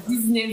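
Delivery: Disney with a Z, "Diz-ney"; Disney without S sound. Shown as a demonstration. Host defends her own way, Disney with a Z. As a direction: insist on Disney with a voiced Z. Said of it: "Pour moi, il y a pas de S".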